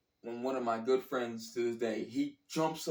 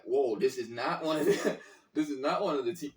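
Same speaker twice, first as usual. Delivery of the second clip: laughing disbelief; 3 dB louder than usual. Retold or imitated.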